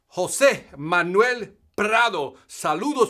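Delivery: very slow, stretched announcer name; announcer name call. Real, not acted. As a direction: roll the name out like a ring announcer.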